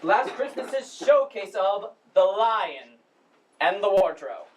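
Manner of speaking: formal, halting welcome speech; lightly pompous drama society director addressing the house; Chris. Acted. Drama society head welcomes audience to the spring production, formal speech. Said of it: "that was Chris's monologue from the play".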